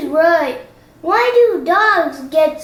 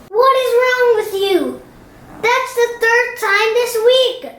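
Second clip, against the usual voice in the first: scolding; 5 semitones higher than usual. Acted. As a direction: chew him out for failing again. Chief scolding Dogman.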